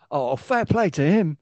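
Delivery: high, slow, lightly voiced conceding fan; imitated fan in the crowd. Co-host voicing one guy in the crowd, lightly imitated. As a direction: imitate one spectator grudgingly won over. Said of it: "And there's a guy going".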